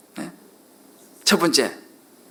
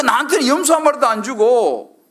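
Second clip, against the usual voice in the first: higher, mock-aggrieved voice; resentful complaint; 4 semitones higher than usual. Elder son blaming father over the goat, acted resentment. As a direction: complain as the slighted elder brother. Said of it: "아버지에게 화가 나는 거예요".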